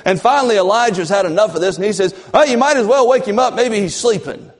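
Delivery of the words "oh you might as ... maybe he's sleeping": high, louder taunting; mock them like Elijah; sarcastic jeer at the prophets. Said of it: "He starts making fun of them".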